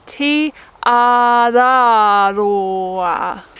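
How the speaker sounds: T, R, R, raw, ah with each R a tongue flick off the roof of the mouth; flicked R's. Shown as a demonstration. Teaching the flicked R sound of Te Araroa. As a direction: tap the R in R, R, raw. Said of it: "put the little inflection on each of the R's".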